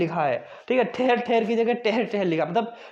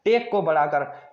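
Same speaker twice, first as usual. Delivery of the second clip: slow mnemonic; 4 semitones lower than usual. Shown as a demonstration. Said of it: "marathon के लिए क्या".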